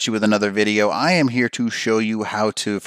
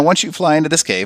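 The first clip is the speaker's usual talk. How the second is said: voice cracking mid-phrase, pitched up; 7 semitones higher, 4 dB louder than usual. Guiding viewers through a cave in a game, voice cracking. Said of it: "voice crack there, sorry".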